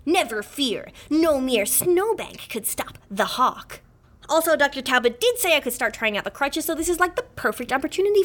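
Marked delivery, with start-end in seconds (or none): 0.0-3.8 slow, bold hammed-up superhero declaration; hero voice. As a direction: boom it like a comic-book hero. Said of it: "put a dollar in the Hero Voice jar".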